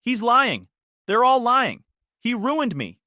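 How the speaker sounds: high loud hysterical screams; screaming. A narrator's reading. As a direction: scream as you're dragged off. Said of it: "She screamed the whole time".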